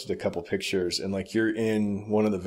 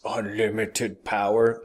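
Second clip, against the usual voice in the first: slow, drawn-out movie-villain quote; mock scream; slower than usual. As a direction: imitate a scream without raising your voice. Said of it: "and he screams".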